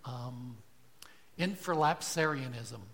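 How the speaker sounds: a gatekeeper quizzing a newcomer, voice lifted; Peter questioning. Acted. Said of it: "the angel or Peter asks".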